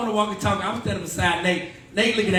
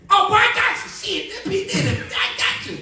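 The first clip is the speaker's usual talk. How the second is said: high, eager mock reply; a touch of giddy fan; eager yes; 12 semitones higher than usual. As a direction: jump at the chance to help.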